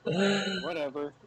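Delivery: slow, drawn-out eye-roll whatever; dismissive drawl. Real, not acted. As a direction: stretch it out, unimpressed. Dismissing the joke.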